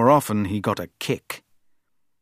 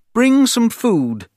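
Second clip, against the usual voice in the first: loud, higher order; 11 semitones higher, 6 dB louder than usual. Acted. Prince ordering a servant to bring food, loud command. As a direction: give the servant a firm command. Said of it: "he ordered".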